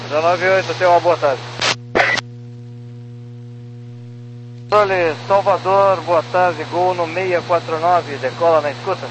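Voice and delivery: tinny voice through radio static; like a cockpit radio call; crackly military radio. Real, not acted. Pilot reply over cockpit radio. (voz de rádio chiada)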